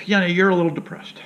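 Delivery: lightly voiced doctor announcing it. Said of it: "What is this, Doc?".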